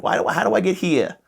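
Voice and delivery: put-on high-pitched old man with a Jewish accent. Old geezer asking again for directions, hammed-up Jewish accent. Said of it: "So let's roll with it".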